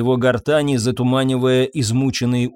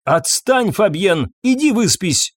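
dismissive; 6 semitones higher than usual. A narrator's reading. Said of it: "отмахнулась она".

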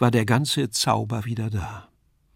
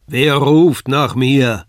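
slow, loud, booming voice from the vault; terrible voice; 8 dB louder, much slower than usual. A narrator's reading. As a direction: call out like a demon from above. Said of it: "ertönte ... eine furchtbare Stimme". (furchtbare Stimme aus der Höhe)

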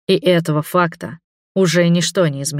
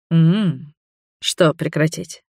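purring; much slower than usual. A narrator's reading. The vampire purrs a teasing question at the girl. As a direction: purr it lazily into her hair. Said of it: "мурлыкнул вампир".

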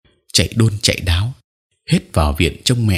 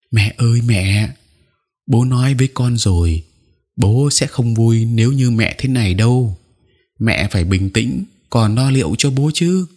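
higher, tearful pleading; speaking through tears; 3 semitones higher than usual. Acted. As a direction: beg mother through tears. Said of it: "Tôi nói trong nước mắt". (nói trong nước mắt, giọng cao nghẹn ngào)

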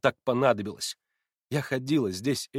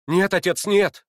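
son cries out louder and higher in protest; exclaiming son; 5 semitones higher, 5 dB louder than usual. A narrator's reading. Son cries out to his father, loud and pleading. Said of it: "вскричал Алёша".

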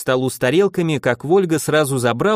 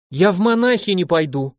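sudden outcry; 5 semitones higher than usual. Acted. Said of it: "вдруг выкрикнула Марфуша".

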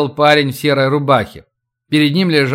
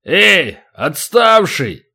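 calling out; 3 semitones higher, much slower than usual. Acted. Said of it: "на окликнувшего".

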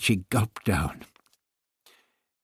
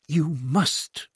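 barked; 6 semitones higher than usual. Acted. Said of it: "barked out the two words".

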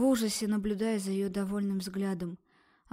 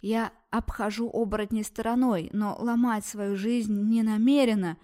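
louder defiant cry; shout; 5 dB louder than usual. Acted. Girl yelling back at the doctor, loud. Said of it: "закричала ей".

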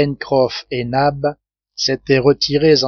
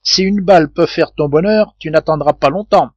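threat; 3 semitones higher, 3 dB louder than usual. Acted. Sailor threatening the hidden intruder.

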